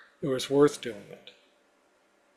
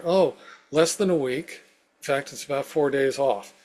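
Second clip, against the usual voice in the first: bright quoted voice; 6 dB louder than usual. Retold or imitated.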